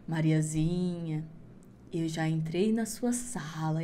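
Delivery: very slow, low, drawn-out eerie call; creepy witch call. Acted. Witch calls Mariazinha from the forest, slow and eerie. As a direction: stretch the name like a ghost in the dark.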